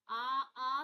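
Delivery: long, slow «आ, आ» with the open vowel "aa" stretched; drawn-out aa sound. Shown as a demonstration. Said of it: "आ की sound आ रही है".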